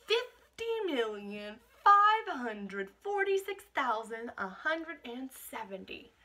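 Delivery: rising excited tally; building announcement. Acted. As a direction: stretch the big number out like a game-show reveal. Announcing Duck's tally, drawn out.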